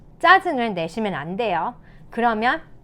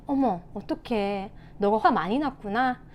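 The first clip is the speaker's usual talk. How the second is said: sympathetic teacher; 4 dB quieter than usual. Shown as a demonstration. Teacher to a fuming pupil, soft sympathy. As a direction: gently acknowledge a child's anger. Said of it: "아이들이 씩씩거리고 화낼 때는요".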